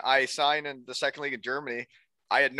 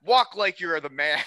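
imitated coach giving orders, slowing down; mocking coach; 3 semitones higher, slower than usual. Coach correcting a player's walk, bossy mockery. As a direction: order him about, drawn out at the end. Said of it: "him making fun of me".

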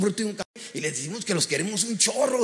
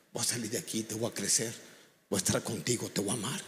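much lower and softer, the empty promise repeated; the drunk father's promise, echoed low and soft; quiet weary repetition; 8 semitones lower, 9 dB quieter than usual. Retold or imitated. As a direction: murmur the same promise again, hushed and low. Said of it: "las mismas palabras que me había dicho".

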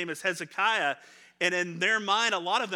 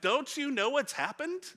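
higher, disbelieving questions; can't believe he missed it; a hint of exasperated travellers; incredulous disciples; 5 semitones higher than usual. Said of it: "And they're like".

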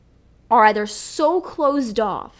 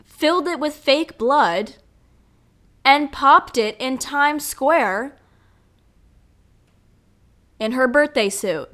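louder, higher newsreader announcing it; mock news anchor; 3 semitones higher, 4 dB louder than usual. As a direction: play a TV anchor breaking the story. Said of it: "people would be like".

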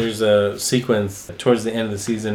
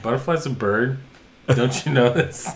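condescending Vigilante. Retold or imitated. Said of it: "talking to Peacemaker like he's an idiot".

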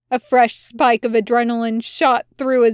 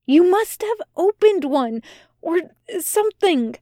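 insistent accusation; 6 semitones higher than usual. A narrator's reading.

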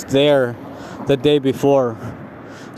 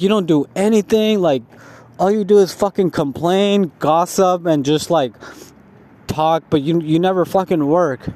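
higher-pitched mock yell at a lazy coworker; retold yelling; 3 semitones higher than usual. Coworker yelling at the lazy guy, higher mock yell. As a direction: rip into him, voice pushed up high. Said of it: "like, yelling".

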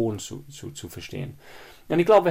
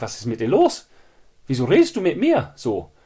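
snapping back; 2 semitones higher, 5 dB louder than usual. Retold or imitated. What the speaker would normally snap at a rude colleague, loud. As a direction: flare up at the colleague. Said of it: "Normalerweise flippe ich aus".

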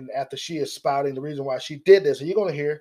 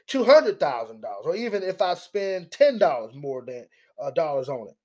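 mock defiance. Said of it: "That's how she said it".

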